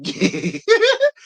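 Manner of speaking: squealing laugh breaking through; high cackle. Real, not acted. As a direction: cackle high mid-quote. Laughs mid-quote.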